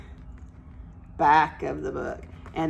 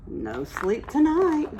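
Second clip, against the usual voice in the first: storybook exclamation; 8 semitones higher than usual. Acted. Story line after drips.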